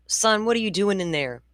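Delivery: mother calling to her son down the hall. Retold or imitated. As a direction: call out to the kid in the other room. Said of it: "I'm gonna yell out".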